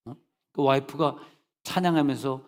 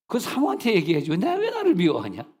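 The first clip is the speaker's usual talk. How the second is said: indignant retort; 5 semitones higher, 4 dB louder than usual. Retold or imitated. Retelling his indignant reply.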